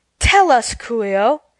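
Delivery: earnest, sincere tone. Narrator voices Glinda speaking to Coo-ee-oh in a story, earnest. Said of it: "said Glinda earnestly".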